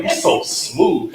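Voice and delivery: slow, laughing compliment; laughing tease. Retold or imitated. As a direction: say it through laughter, teasing. Teasing quote while laughing.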